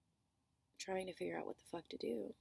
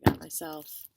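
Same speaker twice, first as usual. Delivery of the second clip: excited; 12 dB louder than usual. Real, not acted. Loud slow build-up.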